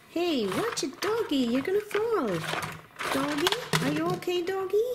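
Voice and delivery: high, small alarmed voice; worried toy friend. Pretend. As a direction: warn doggy in a high little toy voice. Toys warn and check on doggy.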